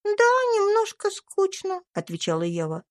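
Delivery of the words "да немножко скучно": put-on high, bright child's voice; little girl Eva. A narrator's reading. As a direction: speak as a sweet little girl. (тонкий детский голосок)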